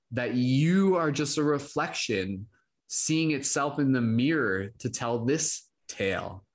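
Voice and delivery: slow, measured spoken-word delivery; poetry recital. Acted. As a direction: recite it like a stage poem. Spoken word poem performance.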